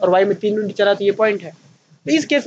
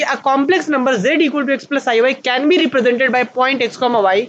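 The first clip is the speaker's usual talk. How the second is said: reading a definition aloud very slowly for students to copy; teacher dictating notes at a crawl; slow dictation; much slower than usual. Shown as a demonstration. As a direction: dictate it word by word, spacing each phrase.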